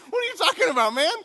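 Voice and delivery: disbelieving protest. Retold or imitated. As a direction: throw up your hands in disbelief. Kid incredulous at dad.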